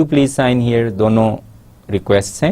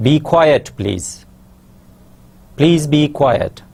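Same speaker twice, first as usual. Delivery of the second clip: slow, higher, gentle classroom request; polite request demo; 5 semitones higher, much slower than usual. Shown as a demonstration. Teacher demonstrating a polite informal request to students. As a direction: ask the class kindly and slowly. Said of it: "ہم کہہ سکتے ہیں".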